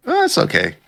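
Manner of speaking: breezy squeaky hero shrugging it off. Retold or imitated. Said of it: "And he's like".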